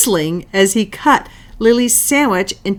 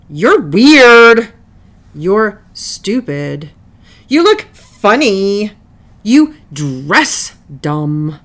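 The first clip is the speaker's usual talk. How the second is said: rude insults; 6 dB louder, slower than usual. Acted. Rude insults between kids.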